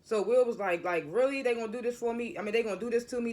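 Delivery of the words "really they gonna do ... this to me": higher-pitched, mildly indignant retelling; a touch of wounded protest, retold; imitated upset disbelief. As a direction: act out someone upset at unfair news. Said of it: "Like, he upset".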